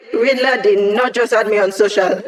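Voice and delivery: can't believe it, so she cracks up; laughing in disbelief. Acted. Hacker laughing to the squad about Riddler adding her. Amused at Riddler's friend request.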